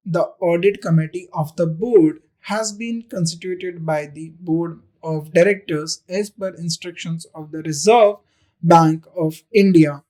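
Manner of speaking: each word read slowly and deliberately for the class; a teacher reading the question to students, slow dictation. Shown as a demonstration. Teacher reads exam sentence aloud.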